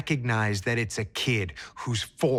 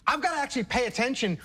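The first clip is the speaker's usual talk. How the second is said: higher voice, tightening as it climbs; escalating tension; 7 semitones higher than usual. Acted. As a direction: act out tension building, pitch rising steadily. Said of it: "hear my voice start to escalate".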